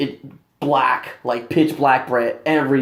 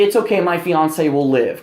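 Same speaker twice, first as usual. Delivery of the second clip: joking. Retold or imitated. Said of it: "Kind of in a joking manner".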